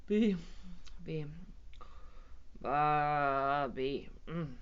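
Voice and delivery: halting, sleepy elephant mumble; mumbled. A narrator's reading. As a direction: mumble it with long gaps, nodding off. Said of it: "mumbled the elephant".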